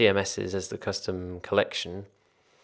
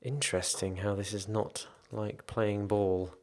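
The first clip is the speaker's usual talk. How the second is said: talking between sips of tea; sipping hot tea; 5 dB quieter than usual. Real, not acted. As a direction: lips wet from a sip of tea. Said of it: "Sorry, I'm slurping my tea".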